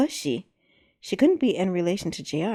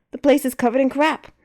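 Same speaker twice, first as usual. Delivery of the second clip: indignant; 6 semitones higher, 6 dB louder than usual. Acted. J R protests.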